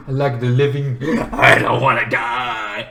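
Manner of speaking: subdued pleading after the scream; mock plea. Sibling afraid of being killed, subdued mock plea. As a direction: drop into a low, deflated plea.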